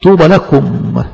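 drawn out, deliberate; slow blessing. Shown as a demonstration. Preacher blessing the persecuted, slow and solemn. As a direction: say it slowly, savoring each word. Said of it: "repeated blessing".

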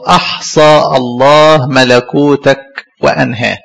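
slow, weighty recitation of the verse; solemn scripture reading. Retold or imitated. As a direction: intone the verse like a pronouncement. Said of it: "قال له".

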